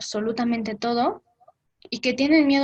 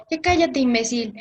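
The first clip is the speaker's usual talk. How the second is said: mock angry yell; 4 dB louder than usual. Best friend yelling at the speaker to shut up, mock angry yell. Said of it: "me gritó".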